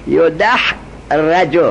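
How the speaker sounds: یدحرج very slowly as "yo-dah-ra-ju"; یدحرج in drawn-out syllables, yo-dah... ra-ju; fatha before last. Shown as a demonstration. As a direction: break یدحرج apart so the "ra" is clear. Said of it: "ما قبل آخر در یدحرج کیه؟".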